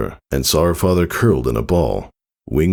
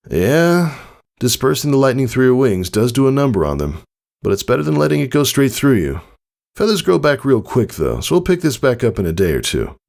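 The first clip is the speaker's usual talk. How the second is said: dismissive father; 9 semitones higher than usual. Acted. Father explains, dismissive of injury.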